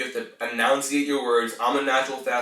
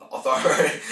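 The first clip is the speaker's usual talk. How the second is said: laughing; 3 semitones higher than usual. Real, not acted. Laughing at own stumbled word.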